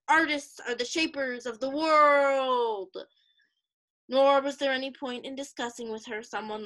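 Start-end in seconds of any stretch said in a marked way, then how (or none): 0.1-3.0 mildly angry, slowing into a louder finish; angry catchphrase. Acted. Art student arguing back at her roommate, mildly angry. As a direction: declare it with growing heat, stretching the end. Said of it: "get angry and repeat the catchphrase".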